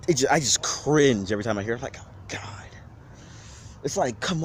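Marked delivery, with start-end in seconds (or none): 2.0-2.4 cringing groan. Retold or imitated. Cringing at bad speech.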